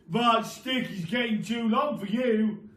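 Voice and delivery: loud teasing remark; sly Mr Twit. Acted. Husband slyly teasing his wife, loud. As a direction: plant the idea slyly.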